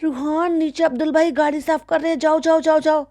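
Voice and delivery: high shooing voice, sent off briskly; mocking madam. Vlogger imitating madam sending her son downstairs, high mimicry. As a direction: shoo the child off in a high voice. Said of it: "अगले second में कह दिया".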